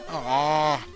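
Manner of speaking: normal talking voice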